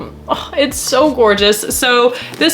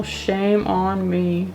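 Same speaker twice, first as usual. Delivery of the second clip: mock self-scolding; 2 semitones lower, 7 dB quieter, much slower than usual. Real, not acted. Forgot the hero's name.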